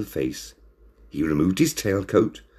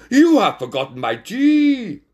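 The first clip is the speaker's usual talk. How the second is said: high, loud complaint; Lady Wigglebottom; 5 dB louder than usual. A narrator's reading. Lady customer scolds the waiter, high and loud. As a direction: complain shrilly as a demanding lady cat. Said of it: "Lady Wigglebottom said".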